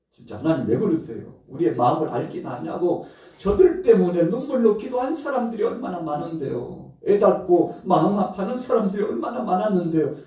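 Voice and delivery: high, loud, indignant pleading; aggrieved complaint. Acted. Jonah protesting to God, high indignant complaint. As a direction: complain to God with rising outrage.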